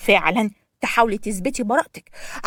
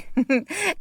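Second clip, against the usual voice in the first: mocking laugh; 5 semitones higher, 5 dB quieter than usual. A narrator's reading. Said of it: "فضحكت يسري بسخرية".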